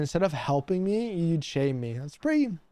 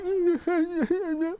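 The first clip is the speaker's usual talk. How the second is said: high squealing laugh; 13 semitones higher than usual. Real, not acted. Streamer cracking up at the card he read, with a high squealing laugh.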